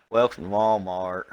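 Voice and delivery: slow, loud greeter welcome; drawn-out mock greeter line; Walmart greeter. Old Walmart greeter welcoming shoppers, slow and drawn out. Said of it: "I can't even do it".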